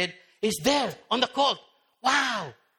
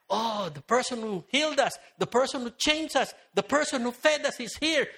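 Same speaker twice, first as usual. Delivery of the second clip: excited crowd; 5 semitones higher than usual. Retold or imitated. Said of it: "Many were excited".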